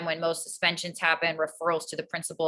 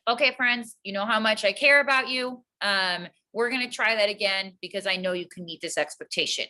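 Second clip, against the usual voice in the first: calm teacher voice; 3 semitones higher than usual. Retold or imitated. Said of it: "It's always calm".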